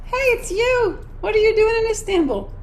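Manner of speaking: high, bright surprised hello; excited greeting. Retold or imitated. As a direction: greet an old friend, thrilled. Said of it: "she's like".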